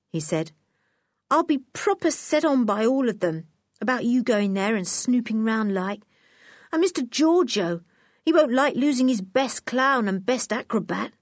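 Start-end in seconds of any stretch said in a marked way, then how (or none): 1.3-11.1 put-on lightly raised, eager circus boy; a worried young lad, a bit higher; Nobby's voice. Nobby pleads about the camp.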